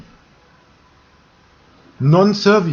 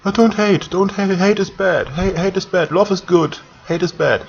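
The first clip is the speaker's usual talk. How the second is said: higher, singsong mock of do-gooders; mock preachy quote; 4 semitones higher than usual. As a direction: parody a preachy lecture. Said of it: "what some people would say".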